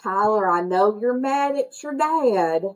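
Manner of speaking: mock South Carolina drawl, words stretched slow; hammed-up fake South Carolina accent; bad South Carolina accent. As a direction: imitate an awful South Carolina accent with hard R's. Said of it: "does this god-awful South Carolina accent".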